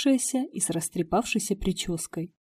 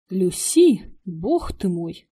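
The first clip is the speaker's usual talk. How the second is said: surprised exclamation; 4 dB louder, much slower than usual. Acted. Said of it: "воскликнул рыжеволосый мужчина".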